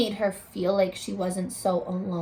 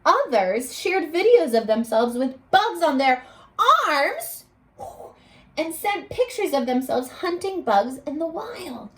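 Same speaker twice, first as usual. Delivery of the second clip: storybook read-aloud voice; expressive classroom storybook reading; reading to children; 3 semitones higher than usual. Acted. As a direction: read it like a picture book for a class. Teacher reads story aloud.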